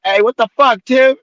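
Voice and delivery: loud, high, exasperated cop; imitated exasperation. Cop coming back at Tim, imitated exasperation. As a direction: mimic a cop losing patience.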